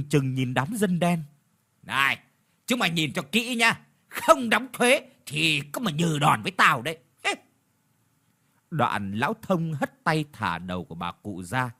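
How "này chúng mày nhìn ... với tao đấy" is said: menacing warning. Acted. Landlord threatens villagers.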